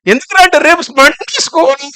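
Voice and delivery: high-pitched imitation of a crying child; mock child whining. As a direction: whine like a kid dreading school. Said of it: "ఏడుస్తా ఉంటారు. చిన్నపిల్లలను అడుగు".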